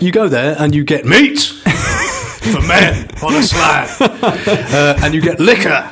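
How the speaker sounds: laughing through it; giggly shouted description; laughing, half shouting. Real, not acted.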